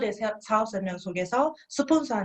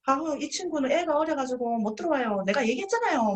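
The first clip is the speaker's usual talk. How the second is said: higher, fussy blurting; mock betraying excuse; 6 semitones higher than usual. Partner refusing for the friend, fussy excuse. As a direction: speak over the friend with excuses. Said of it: "배신하는 경우가 있어요".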